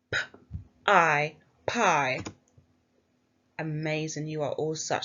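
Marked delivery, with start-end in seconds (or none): 0.1-1.3 each sound said apart with a pause between. Shown as a demonstration. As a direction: segment "P-I" one sound at a time. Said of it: "let's pinch our sounds".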